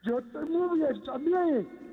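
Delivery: echoing church sound; cathedral echo. Real, not acted. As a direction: voice reverberating in a chapel. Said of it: "¿estás hablando en una iglesia?".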